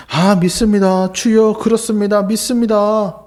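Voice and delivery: loud, slow, earnest confession of faith; fervent declaration. Acted. Blind men answering Jesus, loud fervent confession. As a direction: declare it with full conviction.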